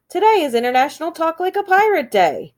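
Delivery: high, hammed-up pirate announcer. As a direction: say it like a jolly pirate.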